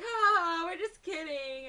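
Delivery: loud, high imitated prankster laugh; hammed-up teasing reveal; mock laughing. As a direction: laugh it off as a joke.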